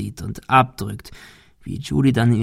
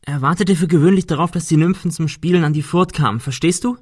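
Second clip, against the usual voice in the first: higher, fast, anxious storytelling; nervous explaining; 6 semitones higher than usual. Acted. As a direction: rush the words to keep him talking. Ben nervously explains myth to Cecil.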